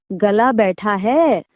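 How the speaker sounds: slow, drawn-out pondering; thoughtful. Acted. Donkey doctor musing over the parrot's sore throat, slowly and thoughtfully. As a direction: stretch it out as if thinking hard. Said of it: "गधे ने बहुत सोचकर कहा".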